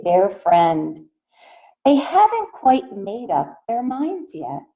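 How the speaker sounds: gentle picture-book read-aloud voice; reading to children. A narrator's reading. Teacher reading a picture book to her class, in a gentle read-aloud voice. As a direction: read it out to the little ones, asking.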